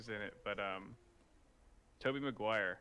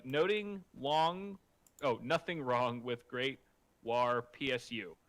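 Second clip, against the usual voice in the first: Lyle impersonation; 4 dB louder than usual. Retold or imitated. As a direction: read it like a mock Lyle accent. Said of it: "trying to do a Lyle impersonation".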